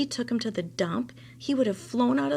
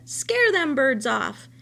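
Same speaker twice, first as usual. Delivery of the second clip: high, loud bossy command; loud order; 3 semitones higher, 6 dB louder, slower than usual. Acted. Old woman ordering the scarecrow rabbit to work, loud. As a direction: bark it high and loud at him.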